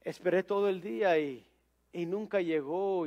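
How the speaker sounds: soft, understated disappointment; mildly downcast, quiet retelling; a little sad. Retold or imitated. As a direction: lightly voice a let-down shoemaker, trailing softly. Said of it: "un poco triste el zapatero dijo".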